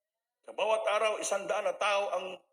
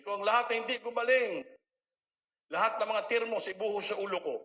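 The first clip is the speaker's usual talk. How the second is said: fervent declaration; 5 semitones higher, 6 dB louder than usual. Retold or imitated. Fervent retold preaching at peak.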